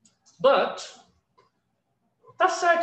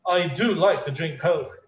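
"do" stressed in a lower, slower reply; rudely emphatic DO; 4 semitones lower, slower than usual. Shown as a demonstration. Teacher showing overused emphasis to class, rudely insistent. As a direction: answer curtly, leaning on "do". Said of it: "You're gonna sound rude".

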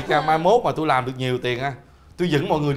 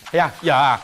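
lightly affected dubbed-drama husband; film dubbing voice; 3 semitones lower than usual. Pretend. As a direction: explain it in a mildly hammed dubbing tone. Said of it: "sao ông cứ nói hoài cái giọng đó". (giọng lồng tiếng phim)

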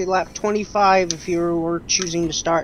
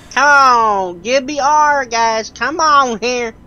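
hype man; 2 semitones higher, 3 dB louder, slower than usual. Pretend. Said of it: "I should be like an amusement park game hype man".

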